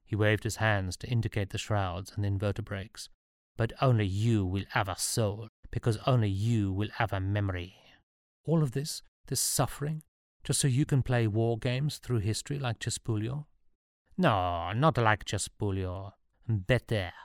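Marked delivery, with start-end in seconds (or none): 3.6-7.8 a would-be emperor addressing his subject; lightly accented story character; self-assured ruler's pronouncement; lightly voiced Napoleon. 8.5-13.5 put-on higher-pitched, questioning young hero voice; lightly voiced, higher protest; protesting Sean. Story figure: Sean protesting.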